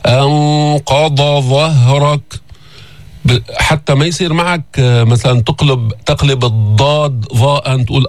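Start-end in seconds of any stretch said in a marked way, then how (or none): 0.1-2.4 أنقض ظهرك slow, with the dad and the dha held apart; clear dad then dha. Shown as a demonstration. Teacher stressing dad against dha, slow. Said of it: "هون ما في فاصل".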